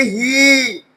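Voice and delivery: "ही" held long as hee; long E syllable. Shown as a demonstration. Teacher isolating the first sound, "ही" drawn out. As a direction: sound out "ही" alone, vowel stretched. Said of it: "यहाँ पर टू sound आ गई".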